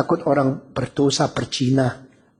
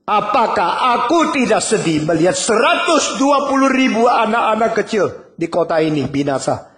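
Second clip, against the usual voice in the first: God's pleading cry; 6 semitones higher than usual. Acted. God pleads with Jonah.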